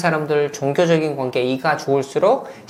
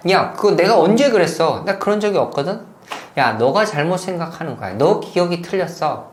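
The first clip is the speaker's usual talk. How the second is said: mock gaslighter denial; 2 semitones higher than usual. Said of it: "라고 자꾸 이렇게 얘기하죠".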